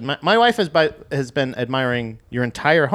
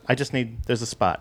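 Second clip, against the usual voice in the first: softer, muttered plotting; quiet scheming; 4 semitones lower, 6 dB quieter than usual. Retold or imitated. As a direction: say it softly like a plan. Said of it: "she's just like".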